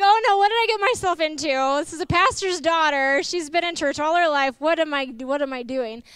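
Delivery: quick, loud panicked rush; hammed-up boyfriend panicking; imitating him in a fast mock panic. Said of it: "he was like".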